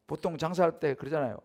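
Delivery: ordinary talk, nothing marked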